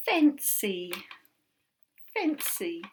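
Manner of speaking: Fancy called out loud; bold word call. Shown as a demonstration. Teacher presenting a spelling word to the class, loud. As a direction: announce Fancy boldly. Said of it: "teacher presents word".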